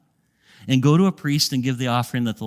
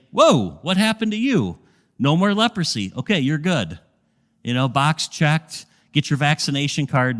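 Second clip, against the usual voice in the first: joking priest. Pretend. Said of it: "No, I'm just kidding".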